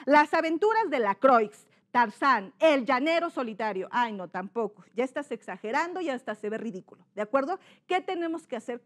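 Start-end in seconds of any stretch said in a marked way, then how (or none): 0.1-3.9 loud, over-articulated reading; exaggerated diction. Shown as a demonstration. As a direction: overdo every syllable, mouth wide open. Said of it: "O imagínate exagerar". (dicción exagerada y ridícula)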